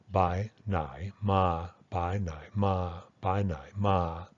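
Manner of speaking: slow "Bai Nai Ma" with the complex tone on "Nai"; careful full-tone "Bai Nai Ma"; unreduced Thai. Shown as a demonstration. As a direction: stretch "Nai" through its full tone. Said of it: "This is the unreduced pronunciation".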